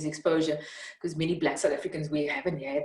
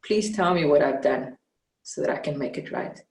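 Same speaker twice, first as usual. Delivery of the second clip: calm repeat; 3 dB louder than usual. Retold or imitated. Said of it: "he repeated again".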